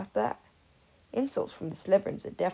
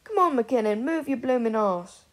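louder, calling down to the pitch; shouting at a player; 4 semitones higher, 6 dB louder than usual. Acted. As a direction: yell encouragement across the field. Sirius yelling at Quidditch player.

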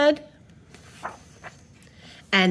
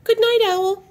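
high, singsong good night; raised pitch, lightly projected; bedtime self-talk; 10 semitones higher, 5 dB louder than usual. Acted. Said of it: "said to himself".

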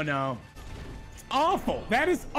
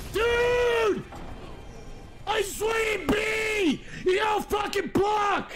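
raging gamer; 5 semitones higher, slower than usual. Real, not acted. Yelling at opponent.

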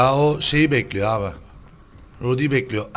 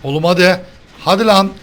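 louder, urgent hurry-up calls; urgent panic; 3 semitones higher, 4 dB louder than usual. Real, not acted. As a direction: push them to run, now. S0 urging escape from killer. (telaşlı, yüksek sesle acele)

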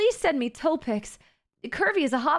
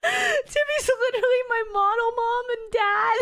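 embarrassed; 8 semitones higher than usual. Real, not acted. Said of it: "That's so embarrassing".

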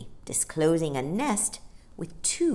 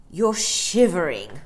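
kindly bear; 6 dB louder than usual. A narrator's reading. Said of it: "the bear said kindly".

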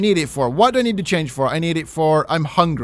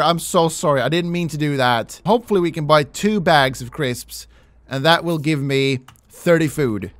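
usual speaking voice

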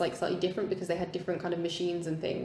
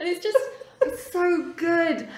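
high, louder, through real laughter; laughing; 10 semitones higher, 5 dB louder, slower than usual. Real, not acted. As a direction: gush helplessly while laughing, drawing it out. Gushing over an actor's funny delivery.

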